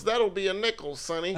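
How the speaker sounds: put-on doing the old post office clerk, half-hearted. Old clerk naming the price to a young customer, lightly voiced old man.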